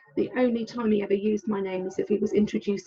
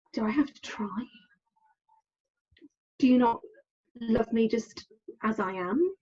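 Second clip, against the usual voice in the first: hurt whisper. Retold or imitated. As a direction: breathe it out as a wounded private thought. Inner hurt question retold.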